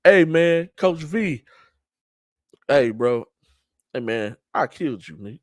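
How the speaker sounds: playful trash talk ribbing the coach he just beat. Retold or imitated. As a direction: rib the coach like an old buddy after beating him. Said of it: "I'm gonna pick on Coach Vargas real quick".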